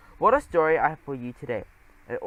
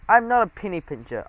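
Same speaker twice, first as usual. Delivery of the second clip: indignant protest, a little louder; 4 semitones higher, 5 dB louder than usual. Acted. Geronimo objects to being called cheap, a mild indignant protest. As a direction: object to the charge, mildly put out. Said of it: "I protested".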